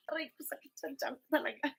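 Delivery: whispered, winded from laughing too hard; breathless from laughing. Real, not acted. Vlogger doubled over from laughing, whispering breathlessly. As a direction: gasp it out after a laughing fit. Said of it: "Kasi ako pinapatawa".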